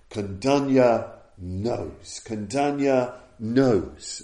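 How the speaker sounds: inspirational shout. Retold or imitated. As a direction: proclaim it slowly, like a restrained imitation of an inspired cry. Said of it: "inspirational shout, this great uprising of, uh, ecstatic poetry".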